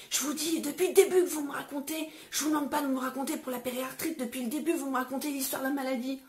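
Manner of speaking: quoting the irritated expert; exasperated doctor. Retold or imitated. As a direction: rattle it off, fed up with her. Expert snapping at her, retold.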